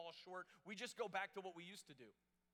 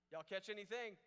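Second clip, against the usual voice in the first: mock yell from the shore, pitched up; lightly raised, higher hailing voice; calling out; 4 semitones higher, 4 dB louder than usual. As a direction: call out a question across the water. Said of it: "Someone yells out from the shore".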